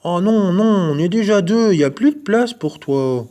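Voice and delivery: two friends protesting the rabbit. A narrator's reading. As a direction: refuse him firmly.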